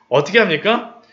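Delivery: usual speaking voice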